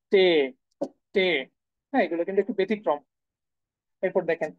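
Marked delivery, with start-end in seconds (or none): 0.1-1.3 টে said as German T, not টি; German letter name. Shown as a demonstration. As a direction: say টে clean. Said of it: "সেটা হচ্ছে কি?". (German T-এর নাম টে)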